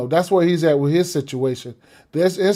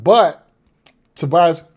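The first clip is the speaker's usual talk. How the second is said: hiccups; 6 dB louder, slower than usual. Real, not acted. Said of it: "excuse me, I got the hiccups".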